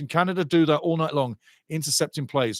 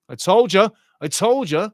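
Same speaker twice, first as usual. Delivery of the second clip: told you so; 4 semitones higher, 5 dB louder than usual. Real, not acted. After predicted foul.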